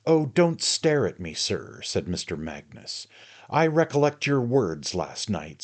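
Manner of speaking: loud sneering tirade; jealous sneer. A narrator's reading. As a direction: sneer through each accusation. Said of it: "indulged in a prolonged sneer".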